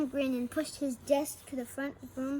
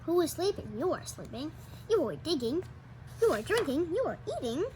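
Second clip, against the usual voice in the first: eager checking; 4 semitones higher, 4 dB louder than usual. Acted. Sam checking each hamster.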